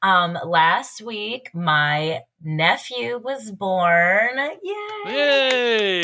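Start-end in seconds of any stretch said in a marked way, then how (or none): 4.6-6.0 excited cheer. Real, not acted. Celebrating nephew's birth.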